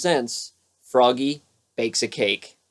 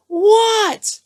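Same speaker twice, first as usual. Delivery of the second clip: little frog's high reply; 4 dB louder than usual. Acted. Froggy answers.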